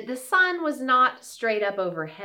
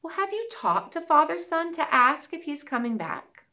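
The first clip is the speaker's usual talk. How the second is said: hawk voice; 8 semitones higher than usual. Acted. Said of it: "the red-tailed hawk said".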